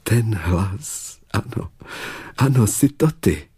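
hushed recognition lifting into joy; mild, dawning happiness; overjoyed. A narrator's reading. Julie recognises the prince by his voice, overjoyed. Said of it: "zvolala přešťastná Julie".

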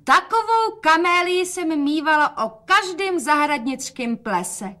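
called out high and bright across the room; calling out. A narrator's reading. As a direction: call out proudly to her daughter. (zvolání nahlas a vysoko)

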